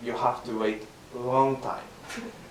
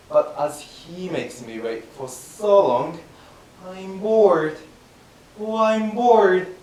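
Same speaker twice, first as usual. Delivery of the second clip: impatient player kept waiting, grumbling; mildly voiced bored player; bored shogi player; 4 dB louder than usual. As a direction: act out being bored of waiting. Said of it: "I will teach you the yawning of shogi".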